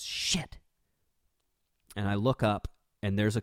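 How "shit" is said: a sharp unvoiced whisper of a curse under the breath. Driver spotting the cop whispers a curse under her breath. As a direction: hiss it like you just saw the cop.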